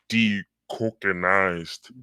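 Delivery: decocainized, stretched very slowly; drawn-out scare quotes. Shown as a demonstration. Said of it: "quote unquote".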